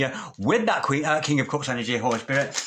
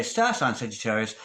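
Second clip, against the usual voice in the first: ordinary delivery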